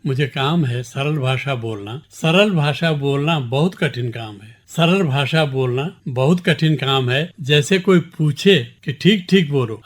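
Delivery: measured, deliberate poem recital; poem recitation. Acted. Poet reciting his poem to the interviewer, measured recitation. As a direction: recite each line to the listeners with clear weight.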